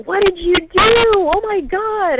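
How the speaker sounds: high, loud outraged cry, stretched at the end; retold flipping out. Vegan niece confronting her sister over the cake, flipping out. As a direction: imitate a niece's appalled outburst. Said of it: "me and my niece were just flipping out".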